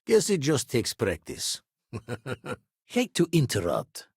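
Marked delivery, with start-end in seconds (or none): 1.9-2.5 chuckle. Acted. Short chuckle between spoken lines.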